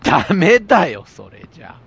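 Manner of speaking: mock scolding, half laughing and half annoyed; half-angry laugh. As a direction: scold with a laugh, loud then trailing off. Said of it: "半切れ笑いみたいな". (半笑いで怒る感じ)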